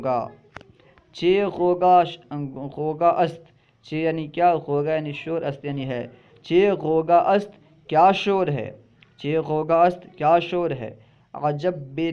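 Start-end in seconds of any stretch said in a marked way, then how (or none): 1.1-3.4 mock scold. Shown as a demonstration. Scolding line read as demo. 6.4-11.0 mock scold. Shown as a demonstration. Teacher acts scolding noisy kids.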